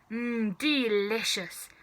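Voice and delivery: slow, savouring; relishing. Acted. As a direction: linger over the taste. Grandma savours.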